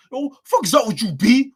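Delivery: loud, high New York street voice; hammed-up New York accent; mock New York accent. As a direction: bark it like a New York dude. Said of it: "It be the New York niggas every time".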